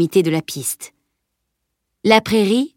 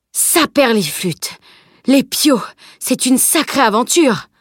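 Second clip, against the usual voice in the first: higher, emphatic amazed exclamation; charretier épaté; 5 semitones higher, 3 dB louder, slower than usual. Acted. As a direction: marvel heartily at the tale. Carter marvels at the boy's tale. (exclamation épatée de brave charretier)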